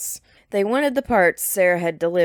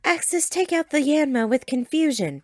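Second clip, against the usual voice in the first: battle command; 9 semitones higher than usual. A narrator's reading. Trainer calling a battle command.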